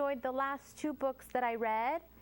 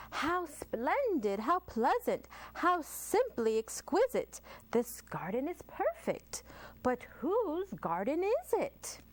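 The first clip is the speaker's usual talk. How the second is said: Mrs McGee, gushing and rising; delighted lady; 5 semitones higher than usual. Acted. Leads a story, character voice.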